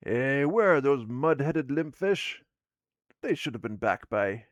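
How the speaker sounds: a cranky dwarf waiting on late partners; grumpy dwarf woman. Acted. Dwarf woman grumbling at late partners, gruff loud voice.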